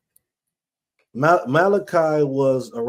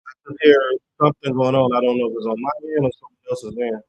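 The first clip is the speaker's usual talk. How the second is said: distorted, muffled voice over a bad line; muffled distortion. Real, not acted. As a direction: sound muffled and fuzzy through the mic. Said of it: "you sound a little, uh, distorted, muffled a little".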